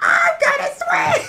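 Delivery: very high, loud, squeaky shouting. Host opening an episode of White Guys versus White Guys with a Toad impression. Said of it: "We do Toad impressions".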